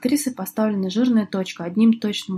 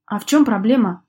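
louder, provoking question; challenging tone; 5 dB louder than usual. Acted. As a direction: throw down a challenge. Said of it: "вызывающим тоном спросил". (вызывающим тоном)

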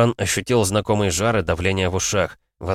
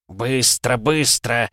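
higher urgent cry; shouting; 5 semitones higher, much slower than usual. A narrator's reading. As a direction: hurry them with a yell. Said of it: "закричала Ветрогон". (громкий срочный крик)

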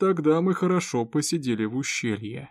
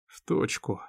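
breathless groaned whisper, slow; 4 dB quieter than usual. A narrator's reading. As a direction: barely get the words out, hurting. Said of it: "простонал он".

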